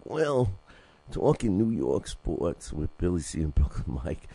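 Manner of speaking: drawled Western sidekick announcing the show; old Western character. Retold or imitated. Host finally landing the Western sidekick voice for his show intro. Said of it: "That's where he used to talk".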